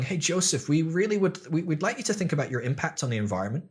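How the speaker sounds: a hint of a preachy eco activist; sweet earnest activist. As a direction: gently nudge a warlord about plastic, brightly. Green activists lecturing a warlord.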